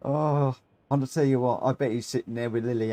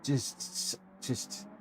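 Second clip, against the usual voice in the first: breathless whisper; 11 dB quieter than usual. Real, not acted. Breathless after laughing.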